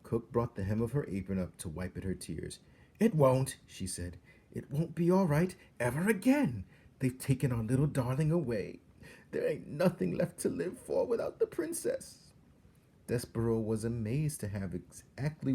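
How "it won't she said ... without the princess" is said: high, loud, tearful despair; despairing cry. A narrator's reading. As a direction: wail it out, broken-hearted. Cook despairing.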